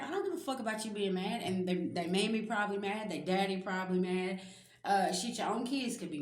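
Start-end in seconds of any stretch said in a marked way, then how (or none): 0.0-1.4 fast, careless brush-off; raised, fast dismissive comeback; defiant retort. Retold or imitated. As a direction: toss it off like you truly don't care. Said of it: "And you're like".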